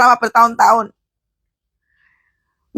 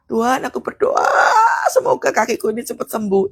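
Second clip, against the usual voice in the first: mock hopeful prayer. Shown as a demonstration. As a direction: stretch out berdoa like a wishful beggar. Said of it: "Jadi bukan".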